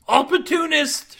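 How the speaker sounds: high, loud, drawn-out cry; crowing call. A narrator's reading. Captain crows at her deflated crewman, calling out.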